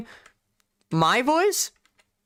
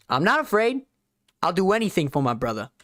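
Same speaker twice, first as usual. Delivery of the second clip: badly faked New York accent, leaning Southern; hammy try at a New York accent; terrible New York accent. Shown as a demonstration. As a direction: imitate a film line in amateur New Yorkese. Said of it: "my terrible impression of a New York accent".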